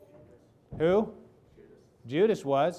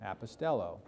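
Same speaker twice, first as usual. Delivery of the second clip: quiet repeat; 5 semitones lower, 7 dB quieter than usual. Shown as a demonstration. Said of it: "repeats the word apostello".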